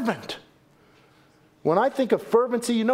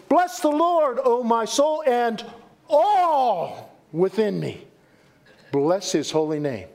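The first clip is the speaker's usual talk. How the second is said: fervent reading. Shown as a demonstration. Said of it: "thanksgiving should be fervent".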